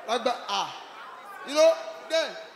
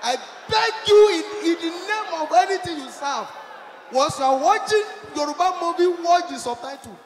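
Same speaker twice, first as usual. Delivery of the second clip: mock plea; 4 semitones higher, slower than usual. Real, not acted. Pleading with audience.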